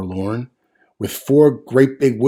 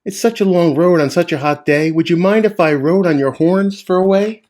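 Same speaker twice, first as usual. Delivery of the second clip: higher, louder little bug voice calling up; 6 semitones higher, 3 dB louder than usual. Acted. Bug calling to the moose for a ride, higher and louder. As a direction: call up to the moose as a cheeky bug. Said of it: "the bug called out".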